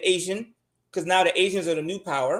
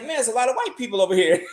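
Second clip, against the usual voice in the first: laughing quote; 2 semitones higher, faster than usual. Retold or imitated. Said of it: "I was like".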